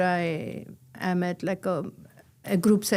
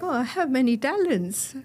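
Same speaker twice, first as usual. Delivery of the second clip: voicing the model; 6 semitones higher than usual. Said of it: "then she's like".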